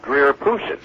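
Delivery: Dreer Pooson, vowels mangled like a flubbed line; garbled name. Retold or imitated. Announcer flubs the columnist's name on air, mangled pronunciation. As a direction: say Dreer Pooson as a mistaken reading of Drew Pearson. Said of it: "it came out Dreer Pooson".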